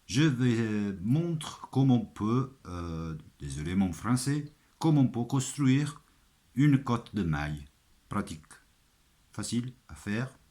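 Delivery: French with an Italian accent; Italian speaker talking French. Real, not acted. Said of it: "je suis un armurier italien".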